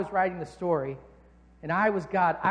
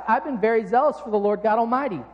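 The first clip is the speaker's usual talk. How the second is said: louder, mock-defensive protest; a bit defensive; 6 dB louder than usual. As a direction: protest with hurt pride. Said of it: "Elijah gets a little bit defensive".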